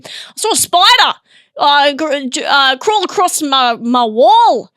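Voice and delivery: hammed-up Australian accent. Shown as a demonstration. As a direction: lay the Australian on thick. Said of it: "That's me doing an Australian accent".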